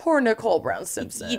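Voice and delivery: soft, pitying murmur; sympathetic. Real, not acted. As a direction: say it with tender pity. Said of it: "Poor baby".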